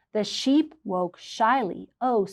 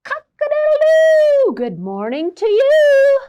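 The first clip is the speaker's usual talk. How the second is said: high, loud rooster crowing; 11 dB louder than usual. Acted. Rooster crowing the farm awake. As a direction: crow it out like a proud rooster. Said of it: "says the rooster".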